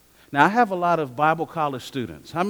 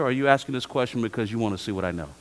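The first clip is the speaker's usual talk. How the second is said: faster, dropping second half; quicker pointed second option; 4 semitones lower, 4 dB quieter, faster than usual. Retold or imitated. Professor challenging a student's motive, quick and lower. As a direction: rush the pointed alternative home. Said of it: "I'll say".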